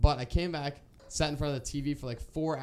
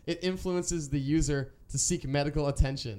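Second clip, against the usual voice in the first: reading it out; 3 dB louder than usual. Retold or imitated. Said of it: "a little side note at the bottom that said".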